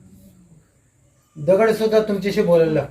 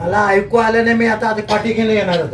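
laughing tease; 4 semitones higher, 4 dB louder than usual. Pretend. Teasing crowd for weak reply.

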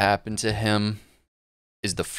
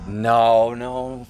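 anguished no; 2 semitones higher, 4 dB louder than usual. Real, not acted. Anguished reaction.

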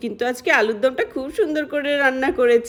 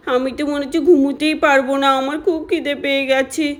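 put-on a light child voice, hungry and sorry for herself; hungry little girl; 2 semitones higher than usual. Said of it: "আর তখনই আমাদের প্রিয়া সোনা বলে". (ক্ষুধার্ত ছোট্ট মেয়ের হালকা গলা)

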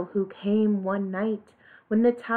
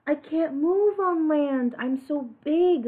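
moaning; 5 semitones higher than usual. Acted. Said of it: "moaned the whale".

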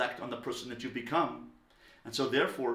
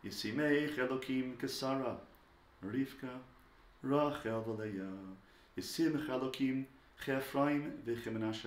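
slow, gently intoned blessing; soft and unhurried Hebrew blessing; warm, loving blessing; 4 dB quieter than usual. Shown as a demonstration. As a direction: bless your children tenderly, taking your time. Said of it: "it must be warm and slow and loving".

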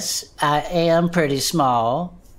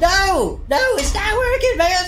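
pained protest; slower than usual. Acted. Bud stuck in the bars begging Herb to stop, high pained yelps. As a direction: plead to stop while stuck.

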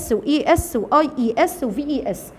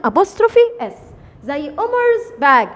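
slow dictation; 3 semitones higher, much slower than usual. Shown as a demonstration. Teacher dictating an example.

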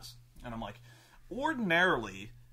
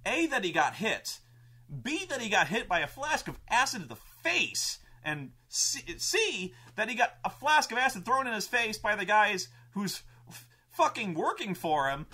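excited storytelling; 4 semitones higher, 3 dB louder than usual. Retold or imitated. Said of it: "I was like".

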